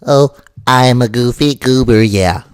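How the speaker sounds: loud dopey nasal Patrick; dim, happy cartoon starfish. Shown as a demonstration. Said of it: "And then you get Patrick".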